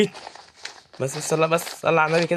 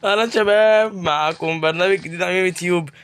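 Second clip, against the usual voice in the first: show host intro. Pretend. Opens a mock interview show.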